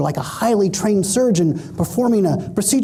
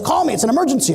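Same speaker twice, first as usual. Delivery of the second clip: higher, urgent retold plea; mock panic; 5 semitones higher, faster than usual. Brother Mark leaving an urgent message, mock panicked. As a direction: play the panicked brother on the answering machine. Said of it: "he's panicked".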